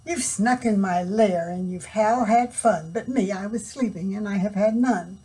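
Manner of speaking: loud complaining bear; grumpy bear voice. Acted.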